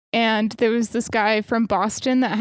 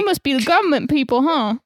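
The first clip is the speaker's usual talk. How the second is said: quick mock Southern accent, higher; hammed-up Southern accent; 4 semitones higher, 3 dB louder, faster than usual. Co-host echoing the lawman's line, hammed-up Southern accent. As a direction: imitate a hammed-up Southern local. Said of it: "he's, like, hamming up the accent".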